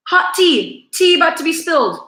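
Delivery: high, loud teasing hook; gossip tease. Real, not acted. Telling viewers gossip is coming, high excited tease. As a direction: dangle the gossip like a secret.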